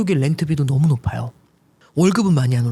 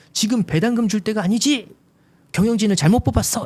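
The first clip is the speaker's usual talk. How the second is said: put-on angry, irate, scolding voice, pitched higher; 7 semitones higher than usual. A speaker retells what one person said to them, imitating an angry person. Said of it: "화를 내시면서".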